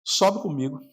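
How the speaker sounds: humble prayer. Retold or imitated. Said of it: "falar assim".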